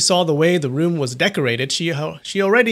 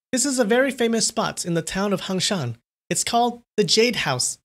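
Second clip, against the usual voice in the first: a bit higher, grinning; lightly voiced grinning woman; 8 semitones higher than usual. A narrator's reading. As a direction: tease it with a grin. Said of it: "said with a broad grin".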